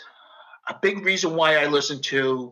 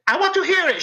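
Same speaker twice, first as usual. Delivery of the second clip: much higher mother voice; imitating his mother; much faster than usual. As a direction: mimic mom demanding to hear it. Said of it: "she was like".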